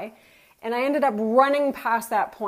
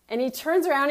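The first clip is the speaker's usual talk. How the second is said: ordinary talk, nothing marked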